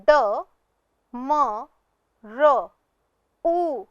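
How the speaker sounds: ड म र उ, each sound apart with pauses; spelled sound by sound. Shown as a demonstration. Teacher to pupils, sounding out डमरू. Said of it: "आइए देखते हैं".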